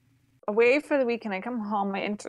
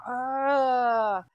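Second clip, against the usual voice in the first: drawn-out "ugh" of frustration; exasperated groan. Retold or imitated. Telling of a week without internet, exasperated groan. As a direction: groan it out, long and fed up. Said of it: "It was like".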